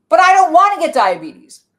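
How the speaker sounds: a high anxious protest; worried manager part. Acted. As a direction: whine like a frightened inner part.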